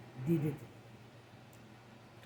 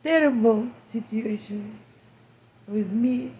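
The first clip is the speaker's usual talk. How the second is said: crying, worn out; 3 semitones higher, 5 dB louder than usual. Real, not acted. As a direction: voice raised and strained with grief. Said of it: "I can't stop crying".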